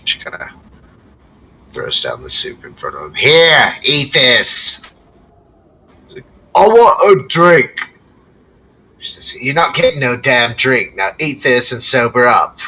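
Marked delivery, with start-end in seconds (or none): 3.2-4.8 high, loud scolding; scolding innkeeper. Acted. 6.6-7.9 high, slow whine; whiny drunk. Acted. Drunk whining for drink. 9.0-12.6 high, loud scolding; scolding innkeeper. Acted.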